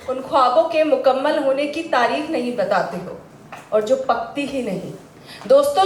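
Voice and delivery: rhythmic verse of gentle reproach, pausing after each line; poem recitation. Acted. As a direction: recite it as a lover's lilting complaint. Continues reciting the love poem. (शायरी सुनाने के अंदाज़ में)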